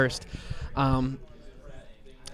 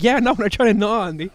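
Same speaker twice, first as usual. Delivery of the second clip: voicing Harley; 7 semitones higher than usual. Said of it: "she's like".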